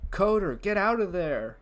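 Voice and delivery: loud, high, shouted command; shouted order. Acted. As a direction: yell at the coder to get out. Writing a script, acting the scene.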